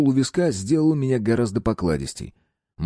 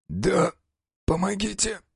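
strained, choked plea for help; having a heart attack; 11 semitones higher, slower than usual. A narrator's reading. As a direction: squeeze it out through chest pain. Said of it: "сдавленно произнёс мужчина".

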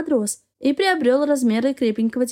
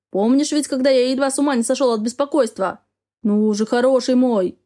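pleading. Acted. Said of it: "взмолился Яр".

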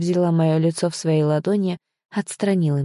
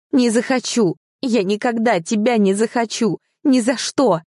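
outraged refusal; 5 semitones higher than usual. Acted. Girl refusing marriage in outrage.

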